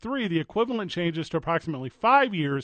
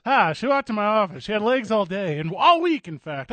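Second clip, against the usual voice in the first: raised, louder hardboiled narrator; noir detective voice; 4 semitones higher, 4 dB louder than usual. Pretend.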